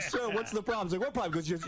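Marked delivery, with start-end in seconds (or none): 0.0-0.9 higher-pitched service-call voice; imitated plumber. Sewer man to prank victim, lightly acted inquiry. 1.0-1.3 high, baffled mock reply; retold bafflement. Dad to the sewer caller, mock bafflement. Acting out dad on prank call.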